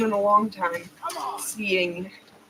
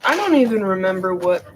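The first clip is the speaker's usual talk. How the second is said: hiccups; 4 semitones lower, 3 dB louder than usual. Real, not acted. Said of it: "got the hiccups".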